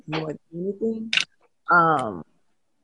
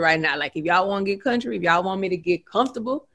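fast, easy Louisiana country talk; real country accent; faster than usual. Shown as a demonstration. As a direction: get comfortable and go country. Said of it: "I could get real country with you".

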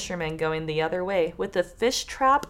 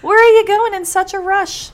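higher, louder weaver voice; weaver asking; 11 semitones higher, 9 dB louder than usual. Acted. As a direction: call after the running pair, pitched up. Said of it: "he asked them".

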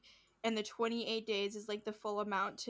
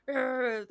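loud mock scream noise; imitated screaming; 4 semitones higher, 7 dB louder than usual. Imitating a man running around after the demon, mock screaming. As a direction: mimic a wordless angry yell. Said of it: "running around screaming".

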